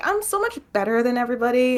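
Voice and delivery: high, snooty mock tone; lightly mocking snob; haughty mock. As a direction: mimic her arrogance. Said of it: "she's like".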